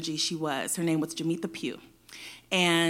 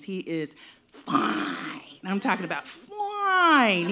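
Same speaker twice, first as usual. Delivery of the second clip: swooning; much slower than usual. Real, not acted. Swooning over a football player.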